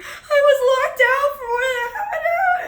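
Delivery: very high, loud mock bawling; hammed-up hysterical crying shout; upset crying. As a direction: wail it in exaggerated, angry tears. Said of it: "I was, like, so upset".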